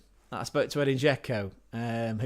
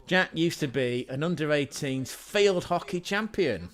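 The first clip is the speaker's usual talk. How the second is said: grand announcement; 3 semitones higher than usual. Real, not acted. Announces Jack's achievement to the stream.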